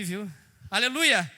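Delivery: ordinary delivery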